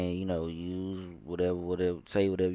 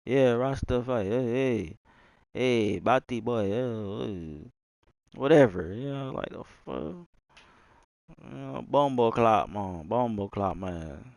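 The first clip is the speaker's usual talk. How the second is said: mock Jamaican accent. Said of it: "Jamaican man".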